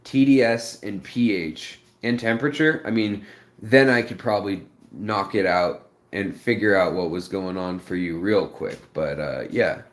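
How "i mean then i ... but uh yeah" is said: talking with mouth full; words round a bite of food. Real, not acted. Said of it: "you're talking with your mouth full".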